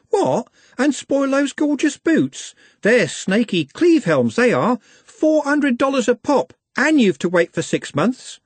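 put-on high, gushing young shop-mad girl, slow on the boots; Juliet, gushing girl. Juliet gushing to Glenda over pricey boots, high and dreamy. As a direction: swoon over those gorgeous boots.

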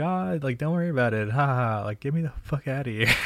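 high, forced ha ha to brush it off; awkward high-pitched brush-off with a fake laugh; nervous fake laugh. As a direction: laugh it off nervously while backing away. Awkward escape after kiss.

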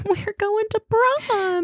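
high, slow giddy squeal; excited squeal. Real, not acted. Excited singsong.

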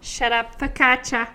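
lightly put-on New Jersey accent; New Jersey housewife. Telling the best friend off, mock New Jersey housewife accent. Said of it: "We're New Jersey housewives together".

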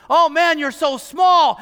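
drawn-out giant's taunt; mocking taunt. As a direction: belittle him like a bully. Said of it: "now he's making fun of you".

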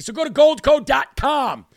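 upbeat infomercial pitch. Acted. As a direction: read the number like a TV ad. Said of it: "I sound just like an infomercial".

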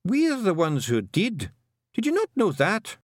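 high, emphatic Scottish-style character voice; Rob Anybody, feisty little Feegle. Acted. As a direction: pitch it up and press the point.

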